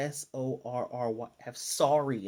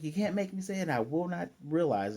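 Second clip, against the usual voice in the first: higher-pitched mock protest; stubborn refusal; 5 semitones higher than usual. Desmond running from his feelings, lightly acted stubbornness. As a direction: play a defiant kid, lightly.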